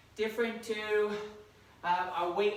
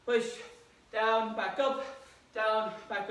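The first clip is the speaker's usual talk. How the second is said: loud coaching; 2 semitones higher, 3 dB louder than usual. Real, not acted. Coach cheering during squat set.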